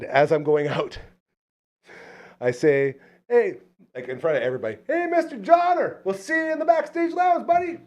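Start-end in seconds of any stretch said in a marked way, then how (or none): 3.3-3.6 retold call out. Calling out to the star. 4.9-7.8 calling out. Retold or imitated. Calling out in front of everybody.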